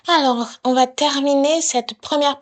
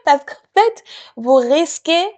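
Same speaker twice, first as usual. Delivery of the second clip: nervous laugh; 4 semitones higher than usual. Real, not acted. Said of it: "alors là, c'est un rire nerveux".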